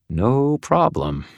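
slow, forced through clenched teeth. Acted. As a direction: grind it out through gritted teeth. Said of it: "said through clenched teeth".

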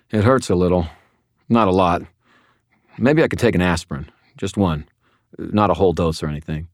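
whiny. Acted. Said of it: "you're a whiner".

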